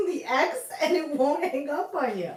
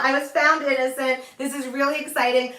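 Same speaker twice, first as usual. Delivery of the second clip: mock elated. Host announcing acquittal to viewers, mock elated. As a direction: sell the innocent verdict as a triumph. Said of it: "I am so happy".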